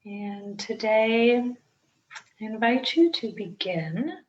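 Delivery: unhurried meditation guide with long pauses; guided meditation. Acted. Teacher guiding listeners into breath-centred meditation, calm guided-meditation delivery. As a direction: ease each instruction out, leaving space to breathe.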